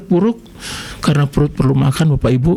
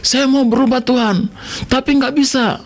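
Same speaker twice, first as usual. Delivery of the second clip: retold tearful prayer; 5 semitones higher than usual. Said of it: "saya menangis".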